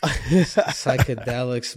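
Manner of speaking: slow, loud drawn-out word. Real, not acted. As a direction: savor the word slowly. Savoring the word.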